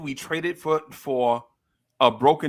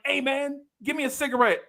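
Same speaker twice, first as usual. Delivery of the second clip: put-on much higher, casual kid asking; mock cocky kid; 11 semitones higher than usual. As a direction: ask it like a brash eight-year-old. Kid asks teacher for cigarette.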